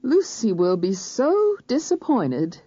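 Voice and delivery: holding back tears, spacing each word; near tears. A narrator's reading. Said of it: "Words were spaced far apart".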